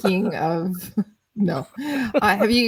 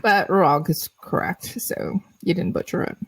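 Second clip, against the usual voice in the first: mouth full of chicken. Real, not acted. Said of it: "while the speaker's mouth is full of, uh, full of chicken".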